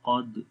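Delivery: "कद" with a slight echoing bounce on the final d; qalqala. Shown as a demonstration. Quran teacher shows learners qalqala, "कद" bounced at the end. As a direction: release the d of "कद" with a small bounce. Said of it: "कलकला होगा".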